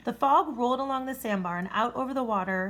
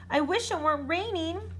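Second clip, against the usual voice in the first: panting; 8 semitones higher than usual. A narrator's reading. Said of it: "panted the dragon".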